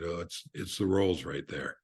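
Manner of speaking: understated casual authority; casual, authoritative. Retold or imitated. Guest bluffing to the valet, casually authoritative. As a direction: toss it off as if it were obvious. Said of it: "as casually and as authoritatively".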